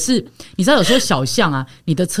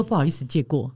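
a timid first try at 不好意思，借过, said softly; quiet excuse me; 6 semitones lower, 8 dB quieter than usual. Retold or imitated. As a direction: softly say 不好意思，借过, almost under the breath. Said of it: "我都会先从小声喊". (小声说“不好意思，借过”)

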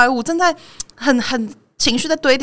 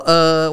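不耐烦的一声“呃”; 低低地哼出一声不满的“呃”; annoyed grunt; 5 semitones lower than usual. Retold or imitated. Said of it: "我就发出一个“呃”的声音". (在电扶梯上被挡住时不爽地“呃”一声)

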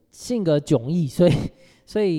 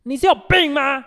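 a sudden, much higher and louder bellow; furious yell; 12 semitones higher, 6 dB louder than usual. Retold or imitated. Coworker screaming at her in front of the whole branch, full yell. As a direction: blast it out to humiliate her. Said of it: "忽然拉高他的音量好几十倍".

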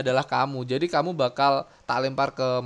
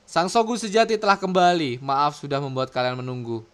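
dramatic manga reading. Acted. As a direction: announce it solemnly, dropping at the end. Reads manga lines aloud. (membaca dramatis, nada tinggi lalu turun)

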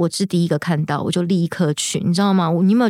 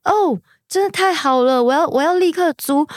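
excited relief; 9 semitones higher than usual. Retold or imitated. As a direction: burst out with joy at the perfect flat. Finding the perfect flat.

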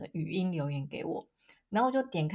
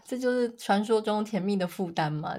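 usual speaking voice

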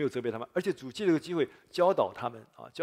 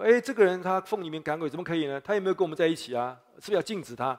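tattling complaint; 5 semitones higher, 4 dB louder than usual. Retold or imitated. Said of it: "告状说".

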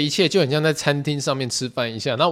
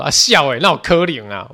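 mom's surprise; 7 dB louder than usual. Retold or imitated. Mom reacts to Japan trip.

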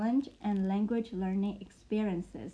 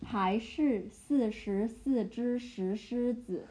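还是四十四只石狮子 slowly, each syllable clear; slow chunked demo; slower than usual. Shown as a demonstration. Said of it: "Okay, the last one".

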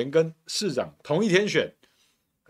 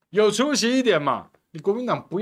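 laughing jab; 7 semitones higher, 3 dB louder than usual. Real, not acted.

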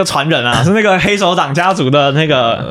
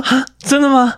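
put-on girl voice; 11 semitones higher than usual. Quoting the girl's reply.

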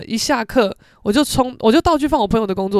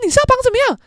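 higher, louder fussy mom; mother's voice; 14 semitones higher, 5 dB louder, much faster than usual. Retold or imitated. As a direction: ask like a meddling mom. Mother asking about the hairstyle.

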